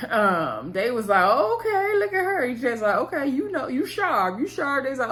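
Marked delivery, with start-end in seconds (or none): 1.2-2.5 high-pitched mock-impressed ribbing; playful sing-out of teasing. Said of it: "laughing and, and teasing her". 2.9-4.8 higher, playful ribbing; mock-admiring tease; teasing. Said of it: "laughing and, and teasing her".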